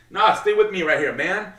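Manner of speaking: imitating a boss telling someone to stay put; mock stern order. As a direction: hold him there with a commanding voice. Roman keeps Jey facing him.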